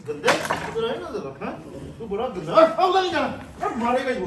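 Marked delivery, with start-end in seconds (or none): 0.1-2.5 playful scolding. Real, not acted. Keeper scolds lion playfully. 2.5-3.7 high, loud, slow warning; urgent call. Real, not acted. Keeper calling a lion back from the wrong way, high and loud.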